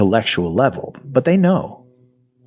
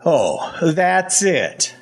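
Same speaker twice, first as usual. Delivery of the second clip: high, mocking echo; agitated sarcasm; 8 semitones higher, much slower than usual. A narrator's reading. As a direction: throw it back in disbelief, pitch leaping up. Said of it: "I am very agitated".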